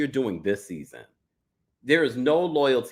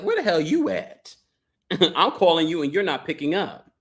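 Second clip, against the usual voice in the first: high-pitched imitation of an irate wife; mock scolding; 5 semitones higher than usual. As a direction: badger the husband, half in jest. Acting out wife scolding husband.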